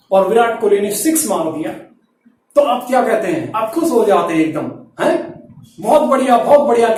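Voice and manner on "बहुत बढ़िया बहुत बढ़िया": bright, pleased praise; happy cheer. Shown as a demonstration. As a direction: cheer a six from Kohli. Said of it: "कैसे कहते हैं".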